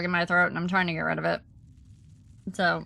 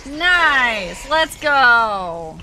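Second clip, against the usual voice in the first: cheering; 5 dB louder, much slower than usual. Real, not acted. Cheering a viewer's win.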